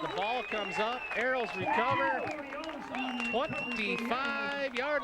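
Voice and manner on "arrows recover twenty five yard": high, sudden recovery shout; excited shout. Real, not acted. Fumble recovery call.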